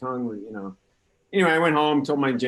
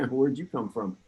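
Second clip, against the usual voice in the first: talking through hiccups; 3 semitones higher than usual. Real, not acted. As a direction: hiccup breaks the words. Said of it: "Excuse me, I have the hiccups".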